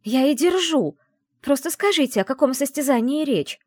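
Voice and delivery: loud, high, outraged shout. A narrator's reading. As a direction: yell it at the couple. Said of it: "выкрикнула я". (громкий возмущённый крик)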